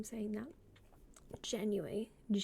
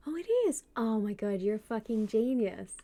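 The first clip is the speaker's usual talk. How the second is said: delighted discovery; 7 dB louder than usual. Real, not acted. Streamer thanks viewer for finding the window, delighted. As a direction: burst out loudly as it clicks. Finds the setting after viewer's tip.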